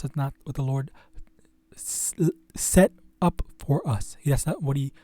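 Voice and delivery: halting, stuttered restarts; stuttering. Real, not acted. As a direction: trip over the words. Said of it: "I don't know why I'm freaking stuttering".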